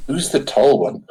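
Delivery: confiding question. Acted. Leaning over to ask Fleabite about a stranger, confiding. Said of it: "lean over towards Fleabite and be like".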